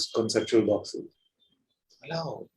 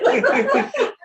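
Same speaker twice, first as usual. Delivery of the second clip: real laugh; 11 semitones higher than usual. Real, not acted. Laughter continues.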